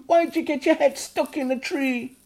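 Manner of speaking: a high, loud scolding mother's voice; strict goblin mother. A narrator's reading. Mother goblin telling off Ugnok, high loud scold. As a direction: scold him like a strict mum. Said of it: "this is what she said to Ugnok".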